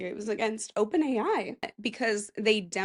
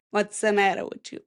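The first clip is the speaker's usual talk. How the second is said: tough Italian-American accent; New York Italian wise-guy delivery. Shown as a demonstration. Slipping into Italian when aiming for Boston, Italian-American accent. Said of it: "No, that's Italian".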